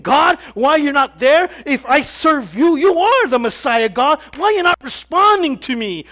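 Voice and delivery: loud, pleading plea flung upward; desperate cry to God. Retold or imitated. A believer crying out loud to God in disappointment. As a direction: call out to God as if abandoned.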